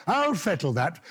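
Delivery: imitating audience member. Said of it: "Sort of halfway back".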